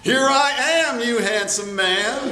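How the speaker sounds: spring out, then purr; flirty. Acted. Skeleton Jolie appears.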